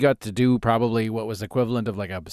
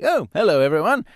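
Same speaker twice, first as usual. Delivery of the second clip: put-on drunk pompous greeting; 4 semitones higher than usual. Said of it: "in my mind".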